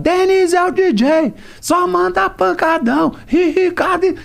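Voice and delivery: high, slow hype announcer; DJ drop voice. Retold or imitated. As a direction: call it out like a funk DJ tag. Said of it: "E eu comecei a botar".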